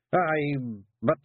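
gruff little Scots warrior caught out; Feegle Rob. Acted. Rob defending himself to the lads, Scots pixie voice.

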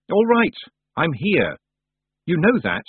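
high, drawn-out challenge; calling out. A narrator's reading. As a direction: call out to an unseen watcher. Calling to a hidden watcher.

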